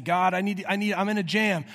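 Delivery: mildly urgent, stumbling cry for help; mock desperate plea. Preacher imitating someone crying out to a nameless God, mock desperate. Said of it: "cry out to a nameless God".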